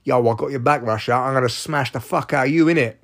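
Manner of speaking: lightly put-on street accent, backing a mate; mock street-accent threat; China. China backing Russia, in a silly street accent. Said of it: "this is me using silly voices".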